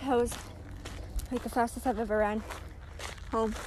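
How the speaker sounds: hushed. Real, not acted. Just ran home, hushed.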